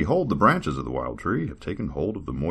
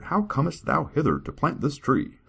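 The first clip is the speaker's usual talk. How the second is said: archaic servant; 9 semitones higher than usual. Acted. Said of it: "talk like this".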